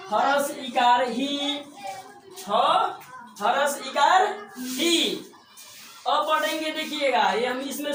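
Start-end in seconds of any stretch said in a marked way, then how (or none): 0.1-5.1 slow spelling out. Shown as a demonstration. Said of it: "तो इसको पढ़ेंगे ह".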